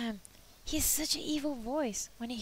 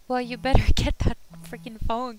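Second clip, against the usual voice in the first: annoyed; 12 dB louder than usual. Real, not acted. Annoyed at ringing phone.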